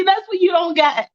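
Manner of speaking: breaking into tears mid-line; girl crying at her friend who doesn't understand. Acted. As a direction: let the sob come through.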